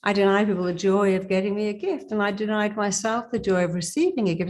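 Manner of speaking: normal talking voice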